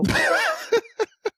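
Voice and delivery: squealing laugh; high burst of laughter. Real, not acted. Reacting to the warlock claim.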